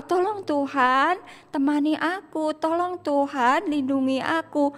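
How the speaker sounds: high, drawn-out plea; pleading prayer. Acted. Child alone at home praying to God, slow acted plea. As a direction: slowly plead for protection. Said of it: "ketika kita berdoa".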